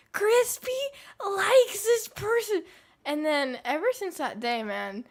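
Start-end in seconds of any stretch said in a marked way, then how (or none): 0.1-2.6 much higher, loud, slow taunting yell; mock scream. The mean girl announcing a crush to the hallway, taunting yell. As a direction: broadcast it down the hallway to humiliate. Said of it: "She screamed".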